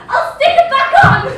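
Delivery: laughing tease. Acted. Girl teasing the boy about his thumb, laughing loud.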